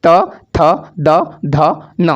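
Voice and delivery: त, थ, द, ध, न each spoken alone, tongue at the teeth; teacher sounds out त, थ, द, ध, न one by one; slow recital of the letters. Shown as a demonstration. Teacher repeats त, थ, द, ध, न for students, sounding each out. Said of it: "दांतों के बीच में आपके जीभ".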